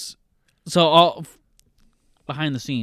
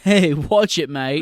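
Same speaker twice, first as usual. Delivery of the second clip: higher, louder mock Cockney "watch it, mate"; Cockney accent; 3 semitones higher, 4 dB louder, slower than usual. Imitating the milkman's Cockney snap at guards. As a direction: toss it off like a cheeky London milkman. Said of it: "he puts on a Cockney accent".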